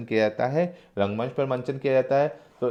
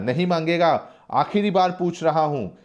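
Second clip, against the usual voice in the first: acted furious ultimatum; angry; 5 semitones higher than usual. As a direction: threaten him one last time. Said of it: "Guman Singh गुस्से से कहता है".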